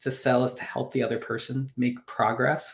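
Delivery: plain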